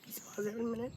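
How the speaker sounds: hushed unvoiced whisper to the interviewer; quick whispered request to stop the tape; whispered aside. Real, not acted. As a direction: whisper it so only the interviewer hears. Aside asking interviewer to pause.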